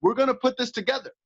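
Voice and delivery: rally yourself like a warrior; mild hyped inner warrior. Retold or imitated. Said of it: "then you have that warrior voice".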